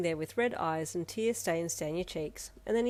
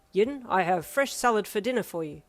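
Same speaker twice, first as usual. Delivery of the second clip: calling out; 6 dB louder than usual. Acted. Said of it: "Ida called".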